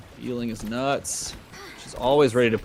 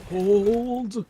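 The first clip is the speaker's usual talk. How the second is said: raised urgent call to hold; shouted callout; 10 semitones higher than usual. Real, not acted. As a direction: call it out to your team. Callout in team fight.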